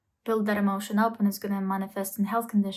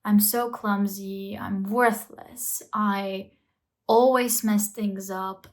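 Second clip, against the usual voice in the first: slow self-blaming talk; much slower than usual. Acted. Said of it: "Negative self-talk kicks in".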